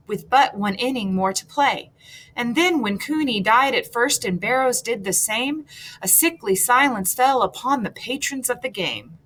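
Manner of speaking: lilting verse reading with the beat brought out; exaggerated poetic rhythm. Shown as a demonstration. Teacher reads a poem aloud to show its rhythm, exaggerated stresses. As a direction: read the verse with stressed syllables leaned on a little. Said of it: "exaggerate the stressed and unstressed syllables".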